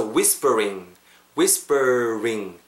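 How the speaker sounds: WHISPERING drawn out, lips rounded for the final "ring"; slow, separated "whis-per-ring"; rounded R demo. Shown as a demonstration. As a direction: stretch "whispering" to show the R. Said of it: "입 많은 거 보이셨죠".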